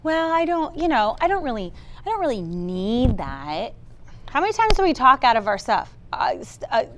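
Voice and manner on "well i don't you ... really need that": mock humble. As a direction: play falsely modest, politely backing away. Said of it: "that humble pie".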